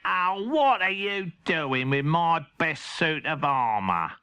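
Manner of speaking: slow dismayed cat voice; a cat aghast at his washed armour; Henry's cat. Acted. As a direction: groan it at the ruined armour. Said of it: "said Henry's cat".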